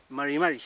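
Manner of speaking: MARI MARI with the Mapuche r, neither trilled nor tapped; pelafalan Mapuche. Shown as a demonstration. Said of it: "no la pronuncio como la española".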